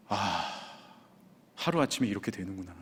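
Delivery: low, soft acted dismay; resigned sigh. Husband takes in his own bad diagnosis, resigned. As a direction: say it quietly to yourself, sinking.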